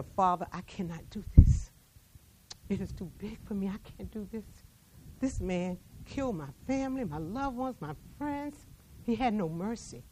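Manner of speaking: soft, broken plea to God; anguished prayer. Acted. Survivor praying she cannot forgive her family's killer, softly anguished. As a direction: let it fall to almost nothing.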